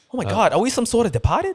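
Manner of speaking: very high-pitched film-actor voice. Quoting The Departed to friends: Mark Wahlberg impression. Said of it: "That's Mark Wahlberg".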